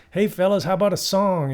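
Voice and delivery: imitating Willie. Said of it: "he turns to the band and goes".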